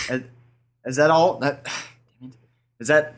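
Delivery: fed-up order taker at the window; annoyed drive-thru worker. Pretend. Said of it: "I would be pissed".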